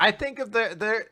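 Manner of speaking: normal talking voice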